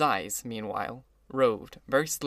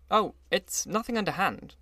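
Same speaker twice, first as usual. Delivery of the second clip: reassuring; 8 semitones higher than usual. A narrator's reading. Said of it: "he assured me".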